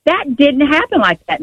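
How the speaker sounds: high-pitched retold objection; retold loud protest. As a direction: protest it, pitch up but volume ordinary. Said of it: "I'm talking loud".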